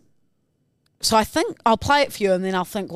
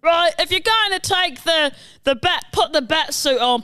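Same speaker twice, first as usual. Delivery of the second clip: raised cockney butler impression; Michael Caine; 4 semitones higher than usual. Butler telling Batman to suit up, attempted impression. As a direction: fumble through butler advice in mock cockney. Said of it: "Your Alfie is Michael Ca".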